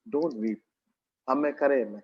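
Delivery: low-pitched, lightly acted comforting voice; tender son to mother. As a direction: soothe her as her own son. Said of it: "Jesus is acting like a son".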